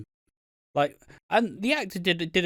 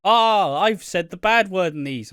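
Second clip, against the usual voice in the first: loud, raised imitation of a dramatic confession; mock outcry; 4 semitones higher, 6 dB louder than usual. Friend owning up to the bad word, mock outcry. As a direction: blurt it out, hammed-up. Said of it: "and Piggy's like".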